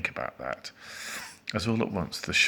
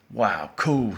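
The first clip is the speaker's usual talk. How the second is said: loud excited exclamation; raised-voice childlike cheer; shouting children; 3 semitones higher, 6 dB louder than usual. A narrator's reading. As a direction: call it out like delighted kids. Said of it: "shouted the children".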